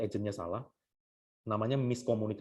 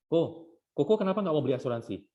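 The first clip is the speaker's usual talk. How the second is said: raised intonation; 4 semitones higher, 4 dB louder than usual. Acted. Agent confronting client about not buying insurance, raised intonation. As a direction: pitch lifted, pressing the question. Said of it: "Intonasinya naik tadi".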